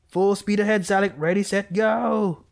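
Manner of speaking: high, rising battle cry build-up; hammed-up countdown to a dash; excited charge. Real, not acted. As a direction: psych yourself up and charge. Charging through the angel.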